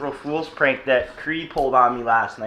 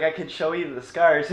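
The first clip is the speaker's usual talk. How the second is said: laughing through it. Retold or imitated. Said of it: "she cracked up fucking laughing".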